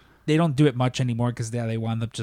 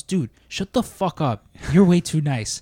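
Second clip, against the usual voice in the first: imitating the boss, higher and slow, mocking; mock gruff boss; 4 semitones higher, slower than usual. Boss telling overly polite worker to shut up, mock gruff.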